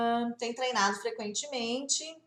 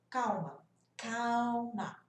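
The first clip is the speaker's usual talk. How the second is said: slower, drawn-out reassurance; calming; much slower than usual. Real, not acted. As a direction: ease them down, stretching the second word. Soothing an anxious student. (tranquilizando, devagar)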